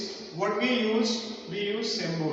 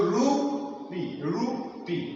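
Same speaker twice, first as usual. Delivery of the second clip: "rupee" slowly, leaning on the ru; slight first-syllable stress; much slower than usual. Shown as a demonstration. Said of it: "So ru is slightly stressed".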